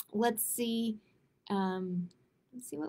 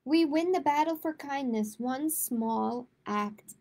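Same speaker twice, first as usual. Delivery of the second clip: gentle, measured picture-book read-aloud; reading to children. A narrator's reading. Librarian reading a kindness book to kids, gentle read-aloud.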